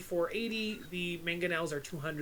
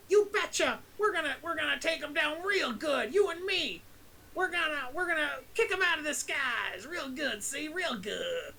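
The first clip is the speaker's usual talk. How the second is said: high, hammed-up eager sidekick voice; bouncy yes-man, all gung-ho; 7 semitones higher than usual. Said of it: "And then Finn goes".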